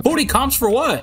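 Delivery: voice changer. Real, not acted. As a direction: voice changer, slowed and warped. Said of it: "turn that voice changer off".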